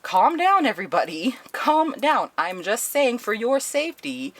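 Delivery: high-pitched mock pleading for calm; placating appeal. Director calming residents upset by the curfew, high and placating. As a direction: act out an official settling a protesting crowd.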